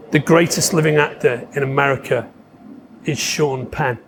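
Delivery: low, measured retold verdict; solemn pronouncement. Actor revealing his own answer, solemn and low. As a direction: imitate a weighty announcement, pausing before the name.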